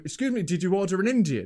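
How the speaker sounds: lightly attempted Indian accent; hesitant try at an Indian accent. Driver asking about an order, lightly imitated Indian accent. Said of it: "one of these accents, like, head wobble".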